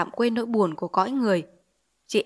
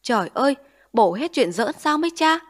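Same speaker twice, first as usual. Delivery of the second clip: higher, louder outcry of dismay; crying out; 4 semitones higher, 3 dB louder than usual. Acted. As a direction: cry out in disbelief at the officials. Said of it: "họ sừng vừng kêu lên".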